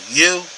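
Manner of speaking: "You" pitched high and loud; emphatic YOU. Shown as a demonstration. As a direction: punch the word "You". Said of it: "is emphatic".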